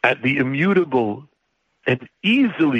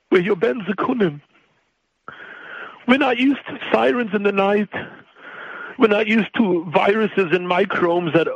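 higher, rising into desperate begging; pleading prayer; 4 semitones higher than usual. Acted. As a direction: pray like a frightened child to his father. Prayer addressed to God.

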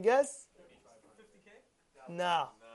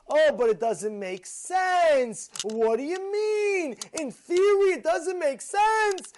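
mock skeptic; 5 semitones higher, 4 dB louder, slower than usual. Mocking a doubter's reasoning.

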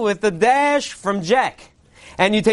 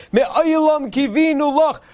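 pitched up high, slow and ringing: "Me'olam Kivinu Loch"; proclaiming the acronym; 5 semitones higher, slower than usual. Acted. Purim preacher to his crowd, ringing slow proclamation. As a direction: sell "Me'olam Kivinu Loch" as a grand revelation.

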